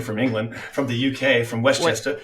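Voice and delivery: usual speaking voice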